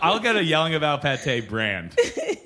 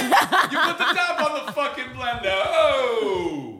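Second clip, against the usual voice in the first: put-on high, yelled tough-guy comic accent; mock berating in a put-on comedian's accent; Andrew Dice Clay; 10 semitones higher, much slower than usual. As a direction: yell it in a hammed-up accent, half laughing. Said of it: "yell at them in an accent".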